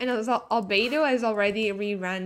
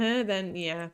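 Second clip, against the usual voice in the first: hiccuping mid-sentence; hiccups; 3 semitones lower, slower than usual. Real, not acted. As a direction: talk through a hiccup. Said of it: "Oh, sorry, hiccups".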